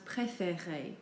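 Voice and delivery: PRÉFÉRER with "ay" in every syllable; French é sound. Shown as a demonstration. Teacher giving examples on screen, French é sound. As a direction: say PRÉFÉRER slowly, each vowel "ay". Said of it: "it is pronounced like A".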